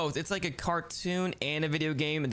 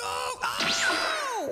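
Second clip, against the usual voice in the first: startled. Pretend. Falling into the game world.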